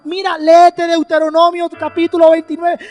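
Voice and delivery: insistent urging. Acted. God warning the believer to read Scripture, insistent. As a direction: act out a pressing warning.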